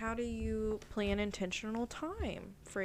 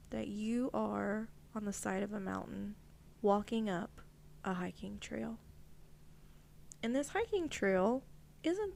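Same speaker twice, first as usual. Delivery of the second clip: guided visualization; 3 dB quieter than usual. Acted.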